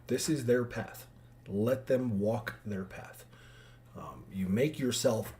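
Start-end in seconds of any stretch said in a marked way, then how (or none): 0.1-3.2 gentle divine voice. Retold or imitated. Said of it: "God inspired me".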